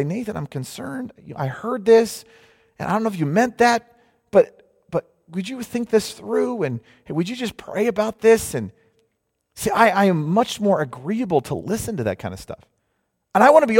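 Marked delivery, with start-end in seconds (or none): 0.0-8.5 gentle concern. Retold or imitated. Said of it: "if you say".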